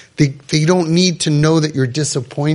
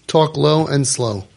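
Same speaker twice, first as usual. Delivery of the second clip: low and slow; slower than usual. Shown as a demonstration. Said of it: "You know what I told him?".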